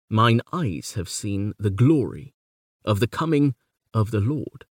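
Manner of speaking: heavy on eyes, glory, coming, Lord; weight the four main beats; four strong beats. Shown as a demonstration. Lecturer reading with four stronger beats. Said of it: "a stronger beat on some of the stressed syllables".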